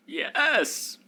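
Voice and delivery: high, slow, loud airhead wizard voice; old wizard. Acted. Game master voicing the wizard pitching a quest, airy and high.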